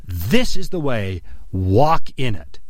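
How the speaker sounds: slow, deliberate scripture reading; measured, falling delivery of a verse; slow solemn quote. Acted. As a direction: read it slowly and weightily. Quoting the verse's voice.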